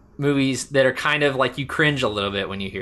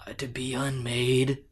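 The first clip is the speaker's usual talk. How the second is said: slow, softer hammy delivery; over-the-top Hawkeye; 3 semitones higher, 5 dB quieter than usual. Retold or imitated. Hawkeye describes his mind control to Black Widow, overdone and slow. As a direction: imitate overdone movie anguish, drawn out. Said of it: "this is a little over the top".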